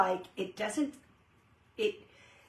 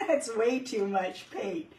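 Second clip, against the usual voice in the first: laughing; slower than usual. Real, not acted. Laughing at the paint mess.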